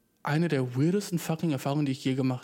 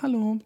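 "Hallo" higher, said as a closed statement; abgeschlossenes Hallo; 8 semitones higher, 4 dB louder than usual. Retold or imitated. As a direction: say "Hallo" with a full stop. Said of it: "„Hallo, Punkt". („Hallo“ höher, mit Punkt am Ende)

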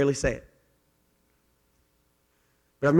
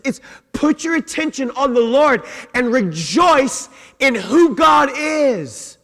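higher, emphatic pulpit delivery; fervent preaching; 6 semitones higher, 5 dB louder than usual. Acted. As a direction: preach it with mounting force. Preaches with rising force.

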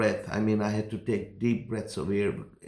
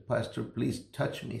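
tearful begging; 5 dB quieter than usual. Retold or imitated. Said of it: "And he begged me, tears in his eyes".

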